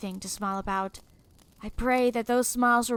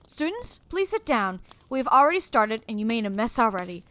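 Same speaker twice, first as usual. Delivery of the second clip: furious teacher. Retold or imitated. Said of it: "I am furious".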